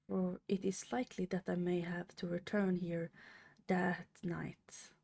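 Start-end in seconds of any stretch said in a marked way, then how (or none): 3.7-4.9 flat, mechanical robot reading. Real, not acted. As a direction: read it like a robot, no life. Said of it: "I sounded like a robot".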